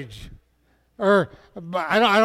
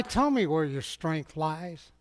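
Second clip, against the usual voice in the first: coaxing hush; 3 semitones lower, 7 dB quieter than usual. Acted. Delilah coaxing Samson.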